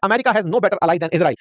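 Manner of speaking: slow, careful reading of the mirrored line; reading the reply message aloud, slow and deliberate; slow quoted reading. Retold or imitated. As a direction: lay out each word slowly. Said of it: "बिल्कुल वैसा कि वैसा ही".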